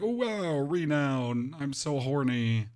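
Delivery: mocking overexcited fan, slowing on the last words; mock excitement. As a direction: ham up fake enthusiasm for the grind. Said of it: "waving your arms like".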